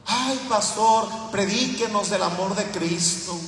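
mock congregant plea. Pastor mocking his flock, slow pleading mock churchgoer. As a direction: whine it like a member begging the pastor. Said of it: "Muchos de ustedes estarían bien contentos".

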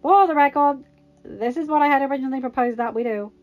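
loud, emphatic point-making. A narrator's reading. Tony claiming the idea was his, pointing out. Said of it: "Tony pointed out".

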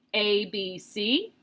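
"C" rising like a question; quiet querying tune that tips up on "C"; question intonation. Shown as a demonstration. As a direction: ask the letters, lifting "C". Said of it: "a question mark".

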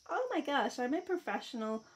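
mock-posh mystery accent, half-hearted; odd put-on accent. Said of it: "I don't know where that accent come from".

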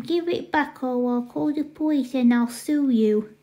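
put-on babyish indignant demand; cross little-brother baby talk. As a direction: argue like a possessive toddler. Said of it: "You stop talking like a baby".

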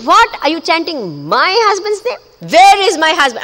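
high, urgent startled questions. Acted. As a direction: demand it, caught off guard. Lakshmi startled about her husband.

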